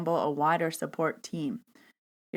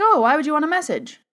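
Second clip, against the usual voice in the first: imitating a baffled guy, much higher; clueless new guy; 9 semitones higher, 5 dB louder, faster than usual. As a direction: swoop up high in mock puzzlement. Clueless new guy's question, retold.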